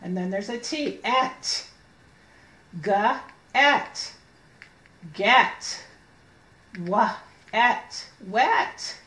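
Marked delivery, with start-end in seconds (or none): 1.0-1.7 "Et" said alone, slow and clear; sounding out et. Shown as a demonstration. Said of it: "E says eh". 2.8-4.1 "G-et" split into its sounds, then joined; sounding out get. Shown as a demonstration. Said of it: "E says eh". 6.8-8.1 "Wa-et" split into its sounds; sounding out wet. Shown as a demonstration. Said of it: "E says eh".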